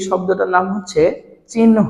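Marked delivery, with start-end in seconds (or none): 1.5-1.8 চিহ্ন in two clear parts, chin, ho; n-before-h pronunciation. Shown as a demonstration. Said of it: "আগে উচ্চারণ করতে হবে".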